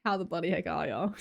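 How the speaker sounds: lightly exaggerated Australian accent; imitated Aussie greeting accent. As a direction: play up a broad Australian accent. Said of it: "as soon as you hear an accent".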